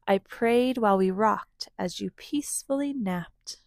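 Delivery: gentle, unhurried storybook reading; reading to children. A narrator's reading. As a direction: read it like a bedtime story. Reads picture book aloud.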